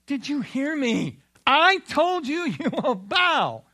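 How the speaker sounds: a raging king laying down the law; angry king. Acted. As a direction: thunder the decree like a tyrant. King repeats threat.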